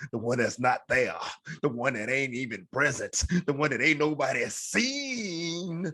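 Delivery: building preacher cadence, drawn out at the end; mock preacher. Pastor preaching to the podcast audience, building cadence. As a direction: preach it like a pastor closing service. Preacher-style closing sermon riff.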